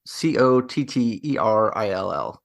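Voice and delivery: slow, letter-by-letter spelling. Shown as a demonstration. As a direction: spell the surname slowly. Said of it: "I hope I don't butcher this last name".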